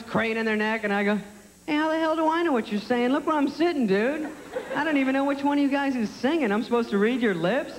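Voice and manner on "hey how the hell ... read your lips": raised-pitch indignant holler; mock-indignant call to a distant stage; pitched up, exasperated comeback; calling back. Yelling back at singer from far seat.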